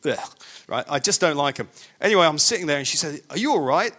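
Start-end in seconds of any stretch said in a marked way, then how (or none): 0.1-0.2 short groan of unease; queasy groan. Acted. Recalling spinning rides to listeners, queasy groan. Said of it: "make me feel uneasy". 3.3-3.9 imitated German lady's accent; Germanic accent. German passenger checking on seatmate, Germanic accent. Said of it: "in her Germanic accent".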